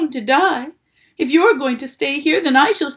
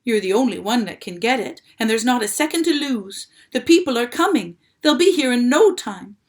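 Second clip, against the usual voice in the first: loud, higher desperate plea; urgent pleading; 5 semitones higher, 6 dB louder than usual. A narrator's reading. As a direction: beg him to hurry.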